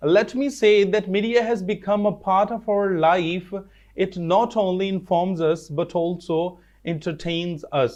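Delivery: very slow, word by word reading aloud; slow dictation reading. Shown as a demonstration. Teacher reading textbook line to students, slow and careful. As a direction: read it out slowly so the class can follow.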